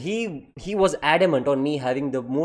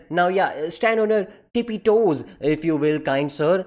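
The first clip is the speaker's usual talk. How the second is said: lightly voiced teacher putting on manners; mock polite teacher; 2 semitones higher than usual. Teacher ordering student onto tiptoes, mock polite.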